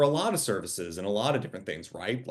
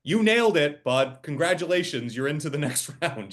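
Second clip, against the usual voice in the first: slap them on the back in voice; hearty praise; 3 semitones higher than usual. Retold or imitated. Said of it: "what they're really saying is".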